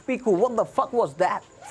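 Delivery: put-on slow, drawn-out American accent. Rapper quizzing himself in a put-on American accent. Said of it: "American accent में मैंने खुद से किया ask".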